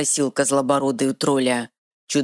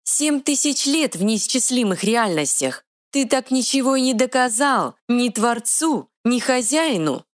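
high, quick little fairy voice; 10 semitones higher than usual. Acted. Fairy scolding the troll, high and bossy. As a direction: play a tiny sassy fairy, pitched high.

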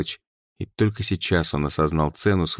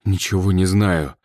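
out of breath. Acted. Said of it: "тяжело дыша сказал Ред".

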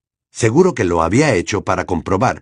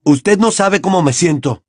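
a mild bellow, somewhat higher; 7 semitones higher, 3 dB louder than usual. A narrator's reading. Harry bellows at the headmaster, understated. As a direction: bellow it at him. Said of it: "bramó Harry".

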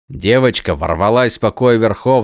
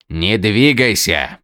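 slow stern order; commanding; slower than usual. Acted. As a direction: order it firmly and slowly. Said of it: "приказал прислужник".

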